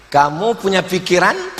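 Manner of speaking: acted cool, relaxed comeback question; unruffled. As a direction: ask it back without getting worked up. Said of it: "dia slow ketika ditanya". (bertanya balik dengan santai)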